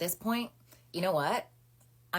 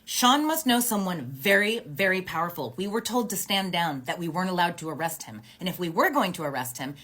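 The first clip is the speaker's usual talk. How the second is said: loud, high, heated officer's rant; officer venting loudly in front of everyone; retold angry outburst; 4 semitones higher, 7 dB louder than usual. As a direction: rattle it off fuming at the injustice. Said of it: "And she was so angry".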